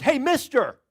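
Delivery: a hint of a cheeky parrot calling out; talking parrot. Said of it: "he heard these words".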